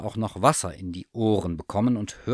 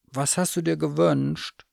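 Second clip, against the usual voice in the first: higher curious bear voice; eager teddy bear; 7 semitones higher, 4 dB louder than usual. Acted. Bear asks the cat about her wish, high and eager. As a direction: ask like a hopeful little bear. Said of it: "fragte Thomas Müller".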